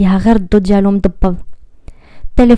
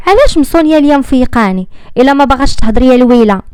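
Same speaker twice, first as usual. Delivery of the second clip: higher, irritated scolding; annoyed Lisa; 4 semitones higher than usual. Acted. Friend scolds caller who won't speak, irritated. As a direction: snap at her silent friend. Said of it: "قالت ليزا بعصبيه".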